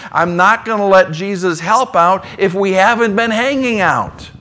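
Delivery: ordinary delivery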